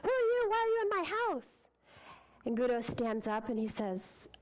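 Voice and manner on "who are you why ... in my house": rude. Acted. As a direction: throw the stranger out with a rude shout. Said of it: "And he's really rude".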